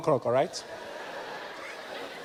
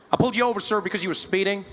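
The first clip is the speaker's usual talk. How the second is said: American policeman. Retold or imitated. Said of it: "Policeman walked up to my window".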